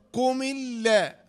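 slow "قم اللا" as qumi-lla, doubled l; syllable-by-syllable spelling. Shown as a demonstration. Teacher building the phrase, slow joined "قم اللا" with doubled l. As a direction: link "قم" into a held l in "اللا". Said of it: "لام شدة فتحة".

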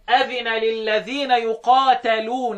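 very slow recited verse, words drawn out; Quran recitation. Shown as a demonstration. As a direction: recite it as in tarteel. Reciting Ibn Amir's reading. (ترتيل بطيء للآية)

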